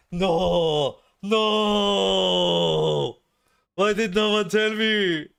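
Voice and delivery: put-on loud, anguished German-accented wail. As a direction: cry out in a thick German accent. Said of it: "I guess that was more German than Danish".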